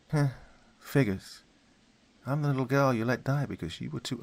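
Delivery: put-on a dead girl taunting the detective; young girl's voice. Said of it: "shifted to that of a young girl".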